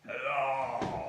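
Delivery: feigned growl. Acted. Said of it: "growled Scrooge in his accustomed voice, as near as he could feign".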